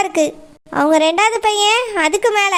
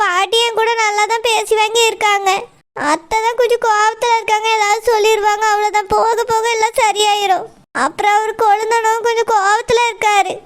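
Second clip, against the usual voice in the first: tearful reassurance. Acted. Sister crying, reassuring on phone.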